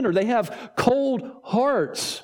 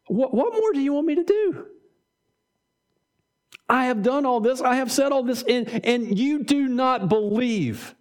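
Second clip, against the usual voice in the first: exasperated plea; 3 semitones higher than usual. Acted. Jesus answering the unbelieving crowd.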